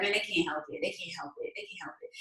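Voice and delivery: softening, fading to near whisper; a hint of the gentle husband. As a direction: ease off, gently, letting it fade. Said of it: "my husband's so gentle".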